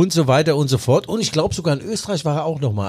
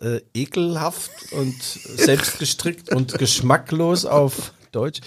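sarcastic drawl; much slower than usual. Acted. Ironic mock question.

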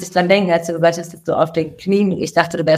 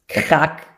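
imitated crunch noise; 2 semitones lower than usual. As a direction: imitate a truck jamming under a bridge. Imitates the truck hitting the bridge.

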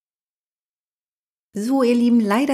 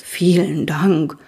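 slow, puffing thanks; a touch of snorting relief; panting thanks; slower than usual. Acted. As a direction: gasp out thanks after the rescue. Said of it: "schnaufte der Schwarze".

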